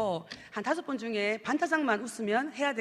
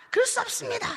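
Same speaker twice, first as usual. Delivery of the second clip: panicked refusal; 10 semitones higher than usual. Retold or imitated. Man refuses again.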